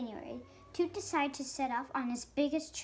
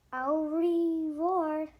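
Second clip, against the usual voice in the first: French goodbye; 3 semitones higher, 5 dB louder, much slower than usual. Acted.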